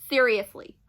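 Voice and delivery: breathy whisper; whispered aside; whispered seriously. Real, not acted. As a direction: whisper it, fed up. Whispered after ugh.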